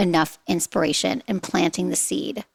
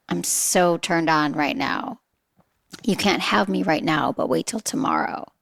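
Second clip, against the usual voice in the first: teasing text; 3 semitones lower than usual. Shown as a demonstration. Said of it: "There's a teasing text".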